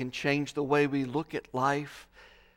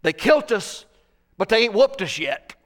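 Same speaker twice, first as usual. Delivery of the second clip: put-on quick, louder Southern redneck accent quoting a Faulkner character; Southern redneck dialect; 4 semitones higher, 7 dB louder than usual. Preacher quoting a Faulkner character in Southern redneck accent. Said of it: "says in Southern redneck dialect".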